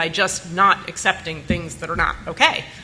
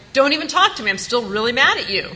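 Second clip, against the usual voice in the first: retold anger; 5 semitones higher than usual. Retold angry brush-off.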